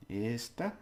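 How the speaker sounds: "Esta" with a lengthened "Es"; held first syllable. Shown as a demonstration. Teacher showing learners to hold it, held first syllable. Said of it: "You just hold it a bit".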